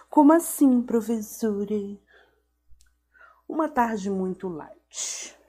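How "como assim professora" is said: mock surprise. Mock question to herself.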